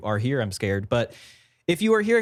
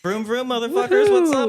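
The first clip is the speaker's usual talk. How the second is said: high, loud race car whoop; excited; 11 semitones higher, 4 dB louder than usual. Pretend. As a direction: hype it up like a racer. The speaker introduced as race car driver.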